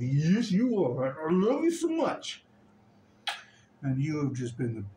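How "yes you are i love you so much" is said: doting dog-talk. Real, not acted. Baby talk to her dog.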